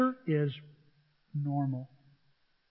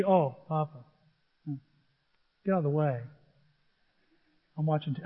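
put-on dismissive child; 4 semitones lower, 6 dB quieter than usual. Imagined bored granddaughter brushing him off.

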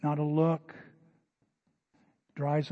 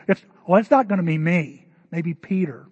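a little loud; 7 dB louder than usual. Acted. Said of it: "get a little loud and go".

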